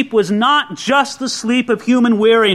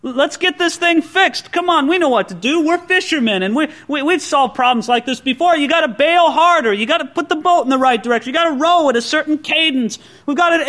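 a hint of fishermen taking charge, pitched up; anxious disciples; 5 semitones higher than usual. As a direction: voice the busy disciples in the boat. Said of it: "You can picture the scene".

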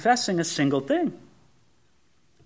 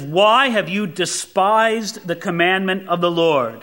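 dramatic scripture quote with a drawn WHY; mildly accusing, weighty question; dramatic reproach. Acted. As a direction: put weight on "why" and "despised". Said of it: "it's very dramatic there in verse nine".

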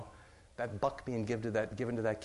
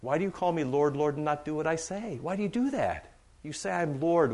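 louder, exasperated rebuke as Jesus; a touch of an exasperated Lord, louder; 4 semitones higher, 5 dB louder than usual. Retold or imitated. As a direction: plead in frustration, why won't they listen. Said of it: "Jesus just exasperated says".

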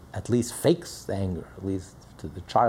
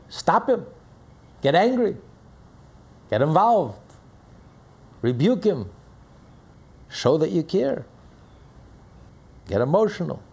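urgent commands; 6 semitones higher, 3 dB louder than usual. Acted. Divine message urging rebuke.

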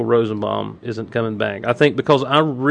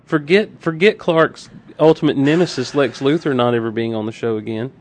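sarcastic. Acted. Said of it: "I love your sarcasm".

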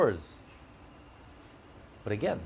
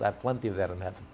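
God's quick reply; 4 semitones lower, 3 dB quieter, much faster than usual. Retold or imitated. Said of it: "Hashem says".

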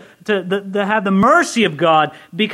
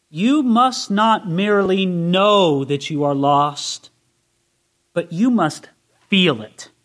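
slow solemn reading; 3 semitones lower, slower than usual. Retold or imitated. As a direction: read the old preacher's words slowly and gravely. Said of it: "May I read to you from Charles Spurgeon?".

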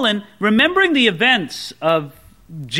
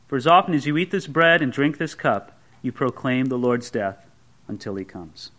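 lower, measured scripture reading; 6 semitones lower than usual. Acted. Pastor reading Paul's words to the church, low and reverent. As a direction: read the verses with reverence, low and steady.

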